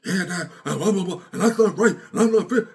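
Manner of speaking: a son snapping at his father, loud and defiant; disrespectful tone. Retold or imitated. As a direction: throw it back at dad with attitude. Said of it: "with the tone he said it".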